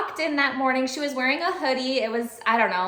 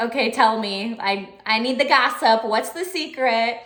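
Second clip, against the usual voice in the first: louder, eager tell me; eager for gossip; 4 dB louder than usual. Retold or imitated. Teacher pressing the student for her secret, eager. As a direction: beg for the gossip.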